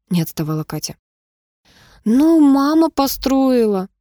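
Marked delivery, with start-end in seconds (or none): 2.0-3.9 slow, drawn-out words; slow reluctant drawl. Acted. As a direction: stretch every word lazily. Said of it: "протянула Нина".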